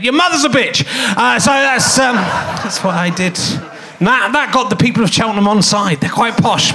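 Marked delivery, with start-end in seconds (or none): 0.0-0.8 retold shout. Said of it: "And I shouted".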